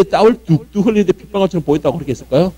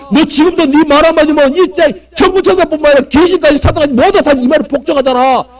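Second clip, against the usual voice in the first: Satan's taunting; 4 semitones higher than usual. Retold or imitated. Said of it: "사단은 계속해서 시험을 했을 거라는".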